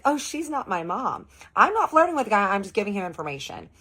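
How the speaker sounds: playful laughing brush-off. Retold or imitated. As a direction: giggle through the denial. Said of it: "I start laughing like this".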